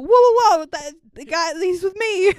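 high, urgent call to stop; mock alarm. Sister halting elves attacking her brother, mock alarm. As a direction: burst in loudly on the first whoas.

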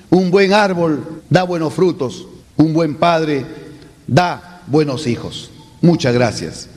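slow, unhurried ending; calm finish to the speech; calm close. Shown as a demonstration. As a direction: ease the last words down slowly. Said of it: "lo dice calmado".

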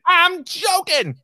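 high, slow mock echo of a friend; exaggerated imitation. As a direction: drag it out, teasing him. Mimics partner's line slowly.

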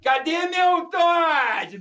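put-on very high, stretched-out kid's call; mock a pampered child calling out; spoiled kid demanding. Spoiled kid demands his drink from dad, high mock whine.

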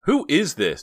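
high, loud, alarmed question; startled woman on the phone; scared demand. Acted. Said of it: "She sounded scared".

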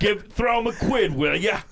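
high cockney barker; cockney accent. Pretend. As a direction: toss off a cockney quip. Cockney bit.

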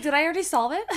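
laughing through the words. Retold or imitated. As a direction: laugh while asking it. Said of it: "I'm like".

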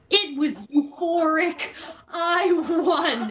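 laughing through a mock triumph; can hardly finish for laughing. Real, not acted. Reading the book's big win, laughing at it.

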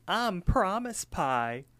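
high, drawn-out cartoon character; Promise Pie. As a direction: announce yourself slowly in a high cartoon voice. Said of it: "And then he's like".

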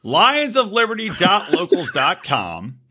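slow slurred plug. Real, not acted. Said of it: "Slurring, slurring through your plugs".

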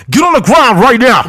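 high, loud barking cop command; cop's voice. Pretend. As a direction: yell it like a cop. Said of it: "They do a little cop's voice".

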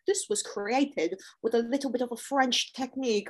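a light hint of Buddha's Australian accent; loosely imitating Buddha's accent; Buddha impression. Co-host imitating a chef bragging about his dish, lightly Australian. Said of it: "Was that his voice? Did I nail it?".

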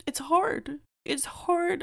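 whispered, then cracking high; holding back tears on the words; voice breaking. Real, not acted. Voice breaking over absent father.

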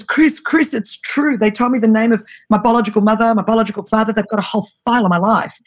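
retold sobbing. Brother phoning his sister about his adoption file, mock sobbing. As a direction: mildly plead as if upset, without real sobs. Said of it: "this time he's sobbing".

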